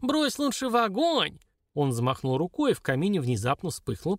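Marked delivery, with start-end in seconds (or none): 0.0-1.4 high, slow squealed plea; shrill little dwarf voice; squealing dwarf. A narrator's reading. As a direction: squeal it like a panicky little imp. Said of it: "заверещал карлик".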